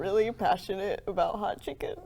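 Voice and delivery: breathy mock-earnest whisper. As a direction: whisper it like a heartfelt confession. Mock-emotional moment, tears.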